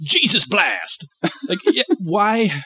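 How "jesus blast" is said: slow, drawn-out mock power move; game attack call. Host joking about exorcism as RPG, slow hammy attack call.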